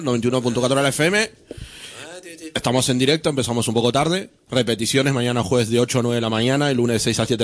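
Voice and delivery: rattled-off radio station details; brisk, practised announcement; rapid presentation. Real, not acted. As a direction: run briskly through the show's contact details. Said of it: "si vas tan rápido no los puede pillar".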